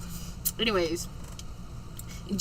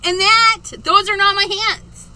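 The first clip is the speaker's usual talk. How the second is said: a lightly put-on higher greeting voice; puppet character voice; 6 semitones higher, 5 dB louder than usual. Host introduces puppet Elizabeth to viewers in a higher put-on voice. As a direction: greet them as a cheerful puppet, pitched up.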